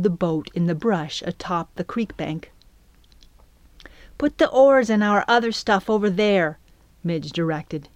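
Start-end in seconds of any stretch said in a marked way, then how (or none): none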